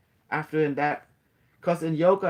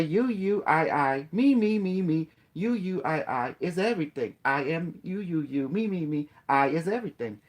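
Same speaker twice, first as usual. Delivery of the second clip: chatbot talking. Retold or imitated. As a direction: play the AI repeating me, me, me.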